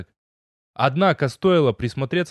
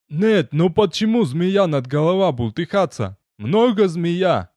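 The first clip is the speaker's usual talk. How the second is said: gnome voice; 5 semitones higher, 3 dB louder, slower than usual. A narrator's reading. Gnome insists in broken speech.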